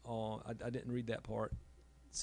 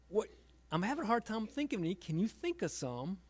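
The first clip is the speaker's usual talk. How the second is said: pleading question; 8 semitones higher than usual. Retold or imitated. Father asks daughter for stories.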